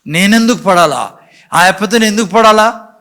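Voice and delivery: stubborn complaint. Retold or imitated. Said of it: "మొండి కూర్చుంటారు".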